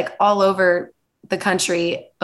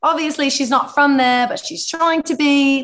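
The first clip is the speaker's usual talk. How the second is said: higher, amateur London accent; attempted Cockney accent; 5 semitones higher than usual. Shown as a demonstration. Guest keeps up her London accent try, amateur Cockney. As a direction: put on a shaky-fake Cockney. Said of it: "it comes out a bit Cockney".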